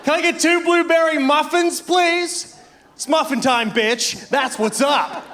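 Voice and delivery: put-on high, shouted American accent demanding muffins; loud American accent. Tourist demanding muffins in a library, shouted American accent. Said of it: "in the loudest American accent".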